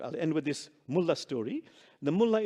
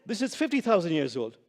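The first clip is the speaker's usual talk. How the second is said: annoyed; 3 semitones higher, 4 dB louder than usual. Acted. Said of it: "Quite annoyed".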